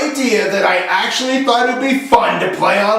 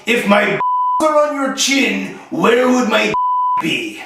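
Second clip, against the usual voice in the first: put-on French Canadian accent; slower than usual. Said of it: "he was French, he was from Quebec".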